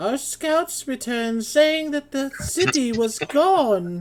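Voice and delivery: very high-pitched woman's voice, "gone" drawn out. Voicing a female character's report to the group, use a higher-pitched voice. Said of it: "I should do a higher pitched voice".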